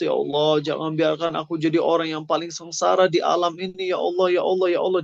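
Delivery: a touch of begging, repeated cries; pleading. Retold or imitated. The last sinner begs Allah not to leave him wretched, mild pleading. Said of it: "Tapi dia melas".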